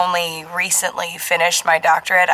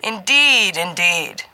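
booming genially; much slower than usual. Acted. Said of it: "Sturgis boomed genially".

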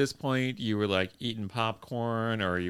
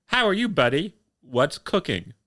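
Watson's bad American accent, hammed up; a Brit trying out American slang, cheerily; lightly voiced Englishman faking American; mock American accent; 6 semitones higher, 4 dB louder than usual. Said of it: "Watson, remembering his book, says".

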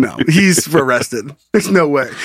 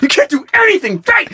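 mock sobbing self-pity; 13 semitones higher than usual. Breakdown continues.

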